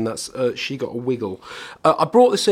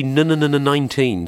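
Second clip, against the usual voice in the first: chopped, repeated first syllable like a tape edit; stutter effect; 4 dB louder than usual. Shown as a demonstration. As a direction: stammer the start like a sampled stutter. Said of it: "stutter effect".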